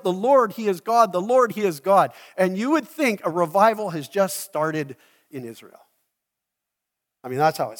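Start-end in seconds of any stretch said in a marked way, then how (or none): 0.0-2.1 loud, high proclamation of praise; crying out. Retold or imitated. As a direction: cry it out to the whole crowd. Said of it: "and cried out".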